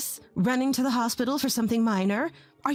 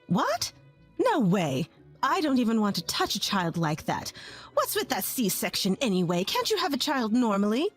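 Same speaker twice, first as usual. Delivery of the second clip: contemptuous refusal. Acted. Mother-in-law refusing and insulting.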